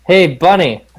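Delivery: yell. Acted. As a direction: call out to get the bunny's attention, only half yelling. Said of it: "and yell".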